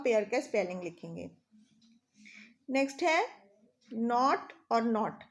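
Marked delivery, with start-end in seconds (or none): 3.9-5.2 नॉट and नॉट said alike, slowly, as one word; slow homophone demo; same sound twice. Shown as a demonstration. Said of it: "दोनों words का pronunciation same है".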